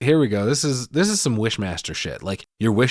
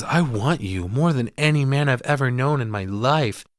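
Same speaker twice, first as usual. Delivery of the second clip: mock seductive voice; 3 semitones higher than usual. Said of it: "this voice she goes into".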